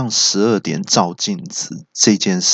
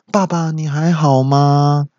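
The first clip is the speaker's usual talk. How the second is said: lightly voiced son, higher and slow; pitying child; 6 semitones higher, slower than usual. Son checking on banana-stuffed dad, pitying. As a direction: draw out the worried question, slightly hammed. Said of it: "就觉得很可怜".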